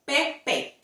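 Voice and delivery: Pepe with short pure e; correct Spanish. Shown as a demonstration. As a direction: Pepe kurz, reines e. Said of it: "we say E".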